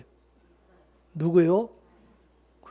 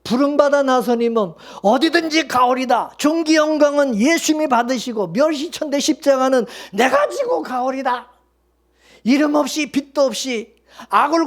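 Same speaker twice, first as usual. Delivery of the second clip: hymn quoted boastfully; 4 semitones higher than usual. Retold or imitated. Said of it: "찬송가 가사처럼".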